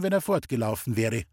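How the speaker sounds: ordinary delivery, nothing marked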